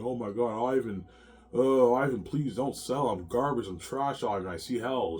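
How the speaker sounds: mock crying plea to husband; whimpering pleading; imitating wife crying. Wife begging husband not to sell, tearful. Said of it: "I hear her, she's crying".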